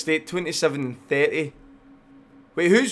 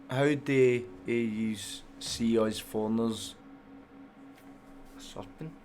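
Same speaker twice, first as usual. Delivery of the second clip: slow, puzzled reread; slow reading; 3 semitones lower, 6 dB quieter, slower than usual. Real, not acted. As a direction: read it out very slowly, word by word.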